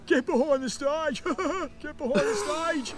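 mock the order while cracking up; giggling stoned mimicry. Stoned friend mockingly repeating the principal, laughing. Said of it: "Josh is like".

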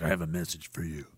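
low, hushed mysterious messenger voice; shady messenger. Acted. Guy called Keyhole approaching with a message, low and hushed. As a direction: deliver it secretively, very quiet and low.

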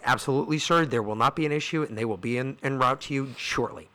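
soft, courteous dispatcher, lightly voiced; well-educated woman. Police dispatcher assuring the caller help is coming, lightly voiced politeness. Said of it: "she sounded like a very well-educated young black woman".

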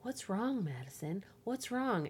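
imitating a nosy girl asking what's wrong; mock concerned kid. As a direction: nag sweetly like a nosy classmate. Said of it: "she's like".

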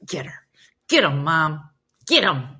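light mock egging-on; mock cheerleading from the sidelines. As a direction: cheer on a fight, imitated. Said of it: "she'll egg 'em on".

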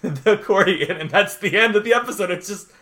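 real choked-up laugh, voice lifting; moved, laughing through welling tears; about to cry. Real, not acted. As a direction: get teary retelling a moving scene. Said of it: "I'm about to cry right now".

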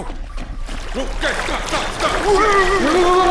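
high, loud yell to stop; panicked shout. Acted. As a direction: scream at them to stop. Halting at the edge of a drop.

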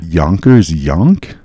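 slow, drawn-out disbelief; disbelieving. Real, not acted. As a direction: Yonkers Yonk stretched out slow. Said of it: "Is that really a thing?".

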